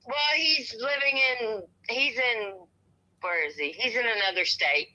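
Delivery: shivering from cold. Real, not acted. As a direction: voice tight from freezing. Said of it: "I'm freezing is why I can't talk".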